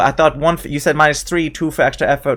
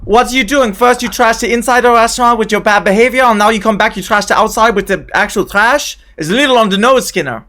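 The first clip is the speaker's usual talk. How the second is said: scolding in a put-on French-German accent, pitched up; 2 semitones higher than usual. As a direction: tell him off with a wobbly French accent. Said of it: "It's getting more German all the time".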